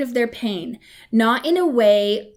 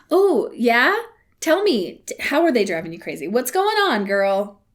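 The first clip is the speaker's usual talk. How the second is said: put-on curious girlfriend. Shown as a demonstration. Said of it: "Just say".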